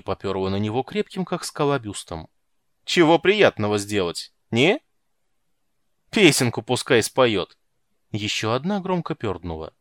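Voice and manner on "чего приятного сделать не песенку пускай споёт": rowdy loud jeering. A narrator's reading. Guards jeer at Geralt.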